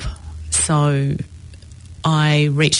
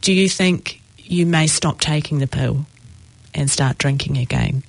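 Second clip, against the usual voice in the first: softly and sweetly. Retold or imitated. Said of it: "softly and sweetly".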